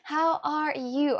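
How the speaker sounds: How are you stretched slowly; slow drawn greeting. Real, not acted. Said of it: "slower repeat".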